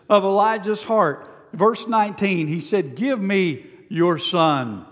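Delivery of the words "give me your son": gentle, kind. Retold or imitated. Elijah gently asks the grieving widow for her son. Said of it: "He just responds with, with kindness".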